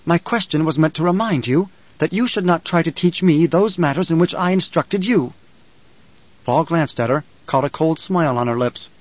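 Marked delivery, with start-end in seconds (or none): 0.1-5.3 mildly stern mother, slightly pitched up; snapped rebuke. Acted. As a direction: put your son in his place. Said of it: "Jessica snapped".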